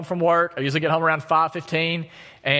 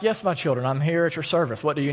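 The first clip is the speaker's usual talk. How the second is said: mock calm. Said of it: "walked across very calmly".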